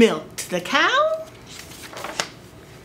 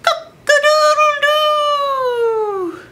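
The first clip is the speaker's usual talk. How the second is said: high, drawn-out cock-a-doodle-doo; a rooster waking the farm; rooster crow; 5 dB louder, slower than usual. Acted. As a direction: crow like a proud rooster at dawn. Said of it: "the rooster crowed".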